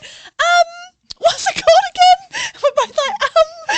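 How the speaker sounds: high, loud giggling panic; flustered laughing. Retold or imitated. Flustered at the bar, laughing while retelling it.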